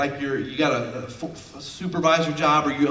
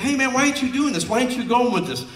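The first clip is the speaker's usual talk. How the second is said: mock skeptic; 9 semitones higher, 3 dB louder than usual. Mocking quote of a doubter.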